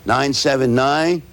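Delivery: phone number read out slowly, digit by digit; slow, deliberate digits with a pause midway; slow dictation. Shown as a demonstration. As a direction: give each digit time to be written down. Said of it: "and do it slow".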